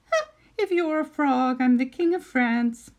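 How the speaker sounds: put-on sarcastic, scornful old witch; mock him with disbelief; scoffing witch. Witch mocks the prince.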